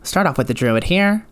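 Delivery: imitating an old video intro, swooping intonation; mock old tutorial voice. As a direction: present it like an exaggerated tutorial narrator. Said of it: "where I talked like".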